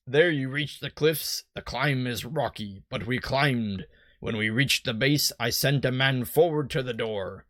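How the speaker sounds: lightly voiced old sea-dog; a hint of stock pirate in it; generic pirate. Boat salesman explains the fog, light generic pirate. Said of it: "my generic pirate".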